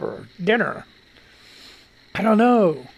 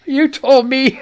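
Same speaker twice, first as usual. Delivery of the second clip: reading a quote; 7 semitones higher, 4 dB louder, slower than usual. Retold or imitated. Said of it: "reading the meme aloud".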